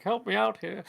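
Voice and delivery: high-pitched mock desperation; hammed-up desperate plea. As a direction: plead for rescue in a high voice. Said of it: "like, desperation".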